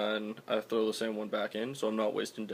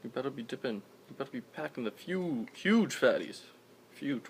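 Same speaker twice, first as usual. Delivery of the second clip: lip full of dip; 3 semitones higher than usual. Real, not acted. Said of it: "popping even fatter lip in".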